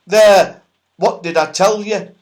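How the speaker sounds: mildly voiced gloating goblin; a hint of a smug goblin, loud; triumphant goblin, loud and high. A narrator's reading.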